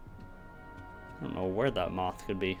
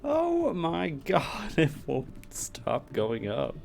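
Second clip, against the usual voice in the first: amazed; 8 semitones higher, slower than usual. Real, not acted. Endless tower climb, laughing.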